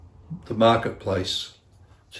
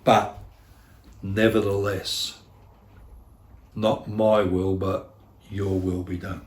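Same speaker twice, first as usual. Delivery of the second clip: quiet surrender prayer; 3 semitones lower, 3 dB quieter than usual. Shown as a demonstration. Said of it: "And I've got to say".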